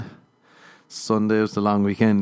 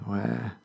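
quiet mock wail; 11 dB quieter than usual. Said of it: "You're wah".

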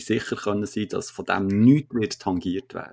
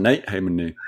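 usual speaking voice

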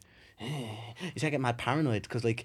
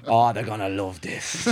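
laughing; 7 semitones lower, slower than usual. Retold or imitated.

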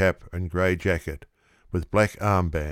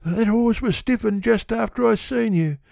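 brazen tipster; 13 semitones higher than usual. A narrator's reading. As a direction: bluster it out, no shame. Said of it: "determined to brazen the matter out".

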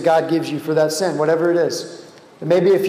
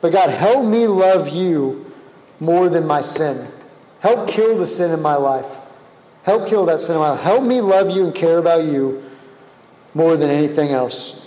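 slow prayer. Shown as a demonstration. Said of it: "I just want you to ask him right now".

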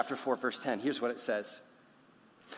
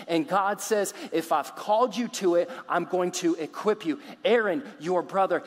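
loud, driving, raised-pitch preaching; emphatic declaration; 4 semitones higher, 5 dB louder than usual. Acted. God telling Moses who created and equips him, emphatic declaration. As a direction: declare it with full conviction.

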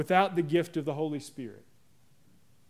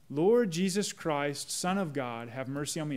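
slow prayer, fading; 2 semitones lower than usual. Shown as a demonstration. Pastor repeats the prayer for the congregation, slow and hushed. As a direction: let it sink into a hush. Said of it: "The Jesus prayer goes like this".

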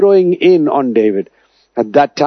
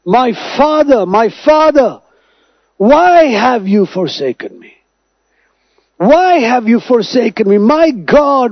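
voicing Jesus crying out to the Father, higher and pleading; a raised, anguished cry to the Father; 6 semitones higher, slower than usual. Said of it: "he cried out to the Father and said".

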